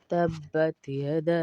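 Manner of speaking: یدا drawn out long, three counts; long madd. Shown as a demonstration. Teacher recites slowly for students, long یدا. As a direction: stretch the vowel of یدا. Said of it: "یدا کو کھینچیں گے".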